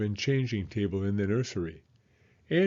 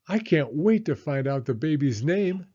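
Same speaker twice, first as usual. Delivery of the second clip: excited; 4 semitones higher, 4 dB louder than usual. Acted. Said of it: "Anna said excitedly".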